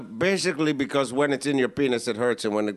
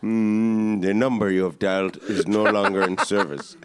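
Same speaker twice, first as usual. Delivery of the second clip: recorded operator announcement voice; phone recording voice; 3 semitones lower than usual. Pretend. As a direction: read it like an automated phone message. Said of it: "Phones don't make that noise anymore".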